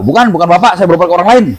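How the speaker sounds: lightly voiced retort, close to plain; just quote her denial, understated; mild retold denial. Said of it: "nggak malu?". (kutipan bantahan yang datar dan ringan)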